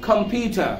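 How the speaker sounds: British "কম্পিউটার", final r dropped to an "ah". Shown as a demonstration. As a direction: end "কম্পিউটার" on an open ah, no r. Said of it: "ব্রিটিশরা আর কে উচ্চারণ করে আ".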